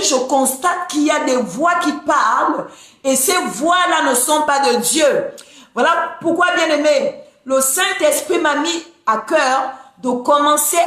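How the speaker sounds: rising sermon fervour, building; preaching. Acted. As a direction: preach with rising conviction to the flock. Preaching to followers on live.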